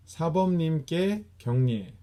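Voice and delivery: crisp 사범님께 경례 called out like a drill order; command call. Shown as a demonstration. Class leader commanding the bow to master, crisp call. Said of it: "And bow to master".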